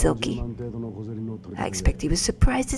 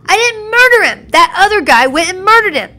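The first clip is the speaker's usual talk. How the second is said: higher, louder outraged denial; indignant shout; 12 semitones higher, 10 dB louder than usual. Acted. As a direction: yell the innocence. Voicing accused character protesting.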